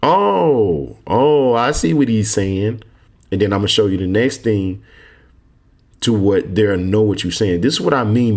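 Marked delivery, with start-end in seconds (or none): 0.0-2.8 imitating an official. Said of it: "the thing that's gonna tell them".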